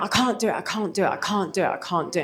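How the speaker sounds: put-on little girl voice breaking down in tearful sobs. Retelling a girl at a showcase running off to her mum: imitating a sobbing girl. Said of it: "And she was really sobbing".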